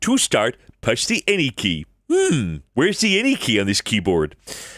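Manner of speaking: cartoon dad voice with pitch swooping all over. Reading a prompt aloud in a Homer Simpson voice. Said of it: "Homer Simpson".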